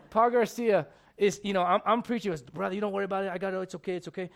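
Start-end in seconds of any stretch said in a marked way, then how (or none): 2.4-4.3 gentle. Retold or imitated. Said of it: "Just gentle".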